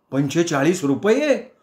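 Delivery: slow, stretched shocked cry; shocked shriek. Acted. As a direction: squeal at the price. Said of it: "मी किंचाळलो". (किंमत ऐकून किंचाळणे)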